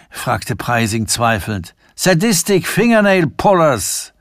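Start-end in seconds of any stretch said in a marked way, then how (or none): 2.0-4.1 much higher, laughing out the joke; whinnying laugh. Acted. Sanford joking to nervous Preising, braying with laughter. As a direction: crack yourself up. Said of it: "Sanford wieherte".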